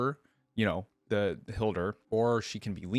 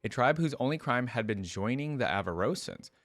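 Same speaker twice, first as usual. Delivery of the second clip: steady storybook reading voice; narrating a fantasy tale to viewers; story narration. A narrator's reading. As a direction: read the lore aloud like an audiobook. Reads story aloud between comments.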